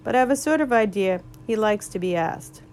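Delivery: talking through a mouthful; words muffled by grass; mouth full. Acted. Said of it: "still with his mouth full".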